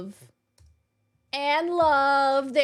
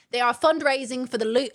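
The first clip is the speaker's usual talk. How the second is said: a slight, unplanned British accent; 3 dB louder than usual. Real, not acted. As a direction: let a British accent slip in without meaning to. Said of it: "I don't know why I've gone into a British accent".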